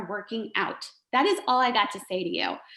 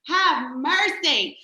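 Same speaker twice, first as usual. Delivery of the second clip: have mercy; 4 semitones higher, much slower than usual. Retold or imitated. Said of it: "and I'm just like".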